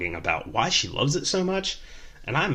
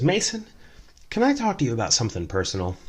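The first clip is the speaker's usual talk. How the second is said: mock drunk woman; 4 semitones higher, faster than usual. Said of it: "kinda stops her stories and says".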